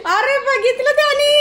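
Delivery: high squealing, laughing cry; excited squeal. Real, not acted. Dog spots her hiding, high excited squeal. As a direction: squeal high at being found out.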